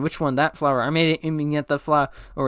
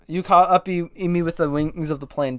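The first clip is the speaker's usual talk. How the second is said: mild acted yell. Bee snapping at his co-pilot mid-flight, mild yell. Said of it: "Don't, don't have to yell".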